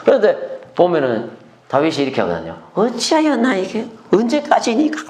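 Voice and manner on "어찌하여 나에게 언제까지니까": high-pitched acted wail; lamenting. Preacher as David crying out to God, lamenting. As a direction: plead high, as David in distress. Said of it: "막 탄식해요".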